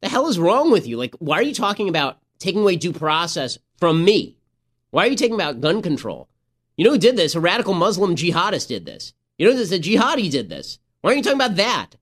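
exasperated demands, mock-yelled; retold angry yelling. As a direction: imitate a congressman losing it on the floor. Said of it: "he starts yelling at these people".

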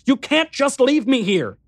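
high-pitched desperate protest; crying out. A narrator's reading. Left alone by the vanishing man, crying out. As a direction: plead at the top of the voice, pitch held high. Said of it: "I cried out".

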